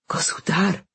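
hesitant, lightly voiced stammer; a mild stammer, feeling out the word. A narrator's reading. Thief to the stranger he robbed, mildly stammering. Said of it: "the thief stammered".

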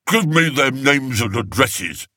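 talking through a mouthful of food; mouth full. A narrator's reading. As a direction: mumble around a mouthful of pudding. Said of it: "through a mouthful of black pudding".

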